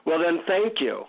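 mildly sarcastic retort; grudging thanks with a touch of sarcasm. Retold or imitated. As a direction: replay a sarcastic thank-you. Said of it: "sarcastically I say".

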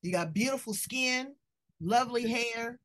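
usual speaking voice

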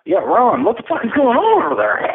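alarmed call down the phone. Acted. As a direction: shout over the line to find out what happened. Calling to absent Ron.

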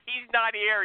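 laughing it out; amused laugh at the absent co-host. Real, not acted. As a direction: laugh through the words.

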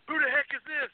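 high, loud mock-gruff snap; hammed-up annoyed caller; imitating rude answer. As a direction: act out the rude guy on the phone. Retelling rude phone answer.

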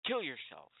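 high, fast angry yell; a raging gamer yelling at his provider; furious shout. Real, not acted. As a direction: scream it at the screen.

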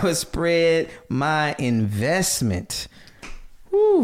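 slow, lightly voiced cartoon toucan; a hint of big beaked toucan; Toucan Sam voice. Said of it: "But he sounds like Toucan Sam".

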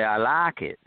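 lightly Southern twang on LIKE; Southern accent. Retold or imitated. Director adopts the crew's way, light Southern accent. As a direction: say LIKE with a Southern open vowel, "laak". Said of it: "from then on, I'd say".

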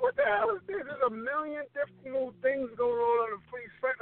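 high, overwhelmed mock bewilderment; bewildered disbelief. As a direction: act lost in a busy website. Retold confusion at website.

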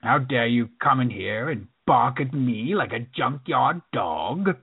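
slowed, lightly voiced Sallah from Raiders; a hint of a grand, outraged Sallah, drawn out; mild mock Sallah indignation; Sallah impression. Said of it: "sort of, like, sound like Saleh".

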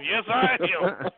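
slow, deliberate answer; drawn-out yes. Retold or imitated. Telling Kamala he has trouble, slow and deliberate. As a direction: lean on each word, very slowly.

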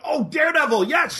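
a bright oh of understanding; host acting out finally getting it, high; sudden realisation. Acted realisation in retold chat.

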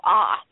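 a mock "Ah" with the mouth wide open. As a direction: show your throat with an ah. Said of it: "I hand her the flashlight and I go".

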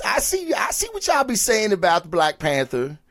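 a lightly put-on slang voice that jumps high on "I see"; a hint of a street-slang voice, tossed off for a laugh. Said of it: "I don't know why I said it like that".

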